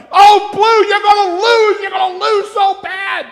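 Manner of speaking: loud, high taunting shout at the rival coaster; trash talk. Retold or imitated. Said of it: "We go".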